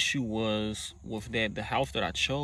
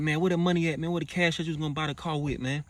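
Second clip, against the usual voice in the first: demanding; 5 semitones higher, faster than usual. Retold or imitated. Demanding the money at gunpoint.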